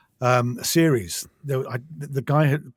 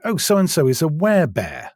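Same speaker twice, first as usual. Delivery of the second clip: mock incredulity, a little higher and louder; incredulous; 4 semitones higher, 4 dB louder than usual. Narrator quoting a far-fetched fantasy plot, incredulous. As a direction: voice the plot as if you barely buy it. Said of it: "I can hear the incredulity in your voice".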